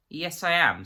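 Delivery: a forced answer that breaks; his confidence cracks as he answers; voice cracking. A narrator's reading. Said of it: "there was a crack in his voice".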